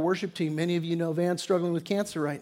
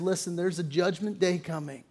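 hushed warning; 2 semitones lower, 8 dB quieter than usual. Real, not acted. Closing solemn warning, fading.

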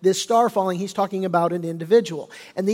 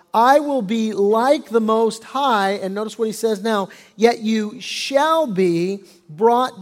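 scripture reading. Acted. Pastor reading Isaiah to his congregation, solemn. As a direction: read the prophecy with weight.

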